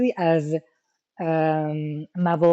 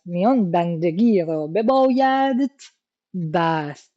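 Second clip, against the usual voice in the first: poem recitation; slower than usual. Shown as a demonstration. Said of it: "خود استاد هم گفته".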